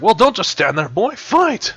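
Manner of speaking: high loud battle cry; shouting. Acted. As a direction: yell it to rally him. Creature urges fighter, repeated whispered.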